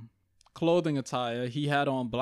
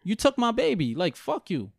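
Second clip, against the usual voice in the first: mom cursing the killer; 4 semitones higher, 3 dB louder than usual. Retold or imitated. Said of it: "She's like".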